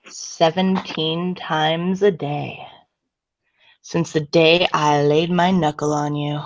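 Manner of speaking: hammed-up love letter purr; sultry voice. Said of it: "I'm gonna use the sultry voice".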